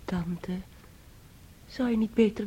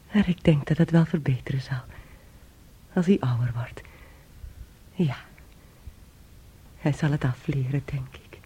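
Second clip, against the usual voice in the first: hushed, unvoiced whisper; 8 semitones lower than usual. Niece whispering her worry to the aunt. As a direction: keep it secret, barely breathed.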